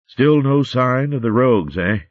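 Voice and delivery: lightly voiced, hearty old recorder; a hint of a cheery old hare. Old hare Rollo speaks.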